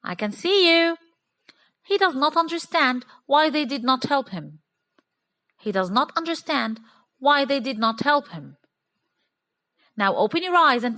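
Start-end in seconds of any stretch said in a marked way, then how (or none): 1.9-8.6 robotic, uncontracted. Shown as a demonstration. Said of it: "this is very robotic".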